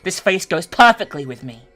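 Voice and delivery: high, loud crazed giggling through the words; manic laughter. Acted. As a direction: cackle madly at your own new face. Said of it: "He couldn't stop laughing".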